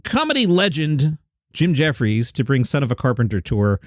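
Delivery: reading out a headline, measured. Retold or imitated. Host quoting a tour headline, in a plain read-out voice. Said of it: "I saw a headline".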